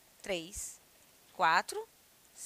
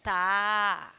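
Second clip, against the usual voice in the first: mock surprise; 2 semitones lower than usual. Shown as a demonstration. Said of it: "fala assim".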